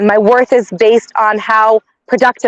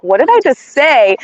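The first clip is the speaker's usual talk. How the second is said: shocked at herself; 3 semitones higher, slower than usual. Retold or imitated. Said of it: "I was just like".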